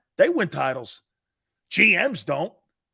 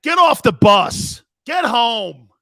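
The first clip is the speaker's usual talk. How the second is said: slow, loud, higher jeering yell; mock heckle; 4 semitones higher, 11 dB louder, slower than usual. Heckling the player Reddick, mock jeering shout. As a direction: jeer him off the field.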